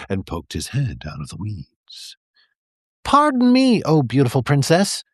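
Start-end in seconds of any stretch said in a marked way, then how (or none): 3.0-5.0 high, whiny plea; overdone pathetic frog voice; sad and pathetic. A narrator's reading. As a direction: beg pitifully like a sorry little frog. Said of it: "he said in his most sad and pathetic voice".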